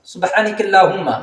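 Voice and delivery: سبحانک اللہم with the vowels shortened; wrong recitation. Shown as a demonstration. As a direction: rush سبحانک اللہم carelessly. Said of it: "یہ غلط ہے". (غلط ادائیگی)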